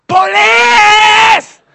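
very high, long-drawn shout; imitated shrieking alarm call; woman's scream. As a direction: scream for the police at full force. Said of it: "הגברת נותנת צעקה".

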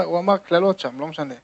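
ordinary talk

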